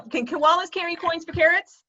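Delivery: slow careful try. Shown as a demonstration. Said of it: "That's pretty easy".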